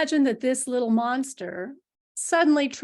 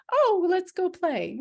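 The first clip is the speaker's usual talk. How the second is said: put-on excited kid; 9 semitones higher, 4 dB louder than usual. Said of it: "kids are like this".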